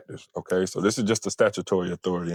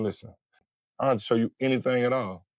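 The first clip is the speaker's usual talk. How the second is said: dismissive refusal; 3 semitones higher, faster than usual. Shown as a demonstration. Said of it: "instead of just saying".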